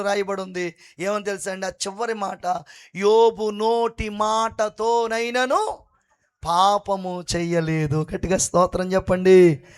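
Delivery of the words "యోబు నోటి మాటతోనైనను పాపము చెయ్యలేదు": very slow, weighty verse reading; solemn scripture reading. Acted. Preacher reading Job's verse to the church, solemn and slow. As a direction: let each word of the verse land.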